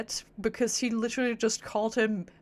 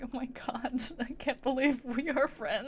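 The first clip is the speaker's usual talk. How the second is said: mock shyness; 3 semitones higher than usual. Streamer voicing Lumine meeting friends, mock shy. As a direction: play her shy, with a laugh in it. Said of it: "she's, like, shy".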